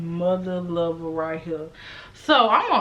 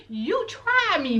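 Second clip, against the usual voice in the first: laughing slowly; 9 semitones higher, slower than usual. Real, not acted. Laughing mid-rant.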